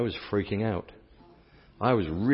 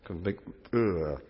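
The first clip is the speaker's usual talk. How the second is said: lemon-face groan; 3 semitones lower, 4 dB quieter than usual. Shown as a demonstration. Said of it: "Make the face".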